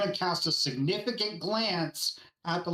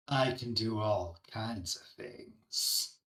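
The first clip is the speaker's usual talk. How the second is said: slow, soft, drawn-out whisper; 6 semitones lower, 5 dB quieter than usual. Voicing a character in a game who grins slowly: whisper. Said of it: "he's gonna whisper".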